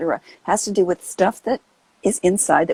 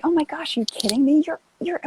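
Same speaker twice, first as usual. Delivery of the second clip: put-on consoling a child; 4 semitones higher than usual. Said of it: "You'd say".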